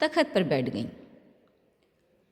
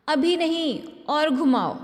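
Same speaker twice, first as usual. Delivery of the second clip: high calling voice; 6 semitones higher than usual. A narrator's reading. Mother calls to children.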